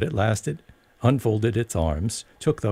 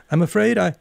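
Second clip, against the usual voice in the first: put-on higher, careful polite girl's voice; very politely; 10 semitones higher than usual. A narrator's reading. Alice apologising politely to the caterpillar. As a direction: mind your manners. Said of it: "Alice replied very politely".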